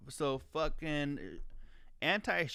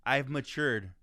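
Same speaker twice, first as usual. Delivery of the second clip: mocking quote; 3 dB louder, slower than usual. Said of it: "talking about".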